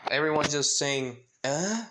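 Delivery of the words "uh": raised, puzzled "uh"; mildly acted shock. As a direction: let out a startled questioning sound. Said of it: "pretty much everyone shocked".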